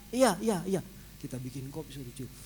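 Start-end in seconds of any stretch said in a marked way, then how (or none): 0.1-0.8 high, loud eager agreement; eager yes. Retold or imitated. Patient eagerly agreeing to only smell the coffee, eager.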